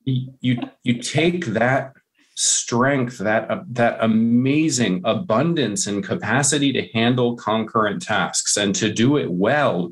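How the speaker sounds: impassioned, emphatic advocacy; earnest conviction, key words leaned on; passionate. Real, not acted. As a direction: make the case with real passion. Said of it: "hear the passion in my voice".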